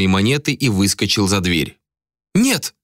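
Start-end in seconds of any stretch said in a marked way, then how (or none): 2.3-2.7 high sharp cry; a desperate no. A narrator's reading. Malika crying out as the money is taken, high and sharp. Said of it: "вскричала Малика".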